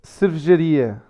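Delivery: "Cervejaria" as "srvzharia", stressed on "ri"; confirmed pronunciation. Shown as a demonstration. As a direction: model "Cervejaria" for a learner. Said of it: "Cervejaria or cervejeira?".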